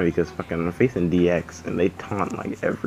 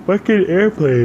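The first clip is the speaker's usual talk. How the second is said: yelling at the game, much louder and higher; angry outburst at the screen; furious shout; 14 semitones higher, 10 dB louder than usual. Real, not acted. Crashes into an airplane in game.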